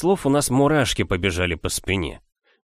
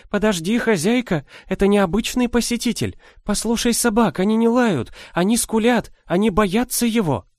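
put-on old woman voice; 12 semitones higher than usual. A narrator's reading. Old nanny warning about the visitor.

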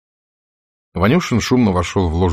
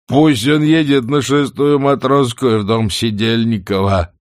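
put-on drunk crying; 4 semitones higher, 5 dB louder than usual. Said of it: "сквозь слёзы, пьяно всхлипывая".

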